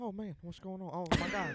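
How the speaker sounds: politician voice with wide swooping pitch. Retelling a game moment, voicing the other player: Joe Biden impression. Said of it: "That was a good Joe Biden".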